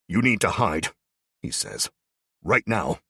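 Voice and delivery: loud, pressing command to hide; urgent warning. A narrator's reading. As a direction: push them to hide right now. Ed warns them of raiders.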